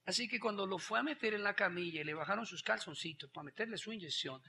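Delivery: usual speaking voice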